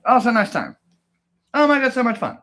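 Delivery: high, loud hammed-up squeal of joy; mock delight. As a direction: gush like it's the best day ever. Hammed-up joy over yogurt.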